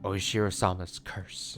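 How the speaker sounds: slow, ominous pronouncement; name it slowly and solemnly; grave. Acted. Grandma telling Natsumi whose curse it is, grave. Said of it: "Grandma said that with a grave expression".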